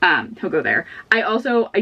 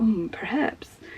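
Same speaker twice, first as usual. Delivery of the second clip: soft, hushed musing whisper. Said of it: "hints of him being like".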